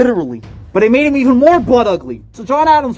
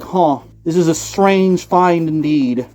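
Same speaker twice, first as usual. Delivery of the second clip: pondering police officer; 4 semitones lower, slower than usual. Retold or imitated. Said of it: "said this police officer".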